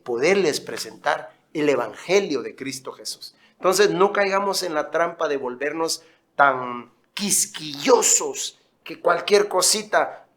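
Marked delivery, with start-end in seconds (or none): 6.4-8.6 whisper. Real, not acted. Pastor warns congregation.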